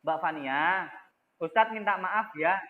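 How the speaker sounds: polite gentle apology. Shown as a demonstration. Teacher shows the polite way to apologize to Fania, gently. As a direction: say sorry kindly and politely. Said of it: "maka Ustadz akan bilang begini".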